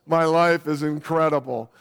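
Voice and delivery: mock testimonial from a model; underwear model. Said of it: "you know, these models".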